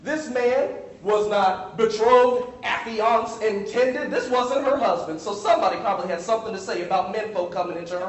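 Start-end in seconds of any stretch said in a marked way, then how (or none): 0.0-4.1 "betrothed" drawn out slowly; mock-gossip emphasis; emphatic listing. Shown as a demonstration. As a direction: pile up the synonyms with slow weight. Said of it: "for emphasis".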